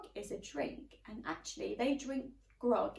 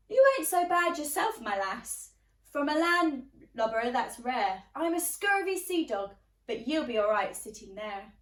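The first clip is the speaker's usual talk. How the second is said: put-on pirate boy; 5 dB louder than usual. Pirate boy Jim speaks.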